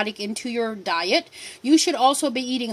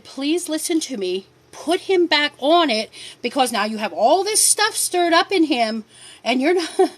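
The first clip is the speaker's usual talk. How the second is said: earnest plea; 3 semitones higher than usual. Retold or imitated. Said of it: "I said".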